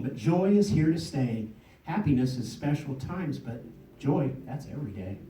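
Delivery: balanced contrasts with falling cadence; poem recitation. Acted. Poet to audience on happiness versus joy, recited poem. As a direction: set each pair against the other.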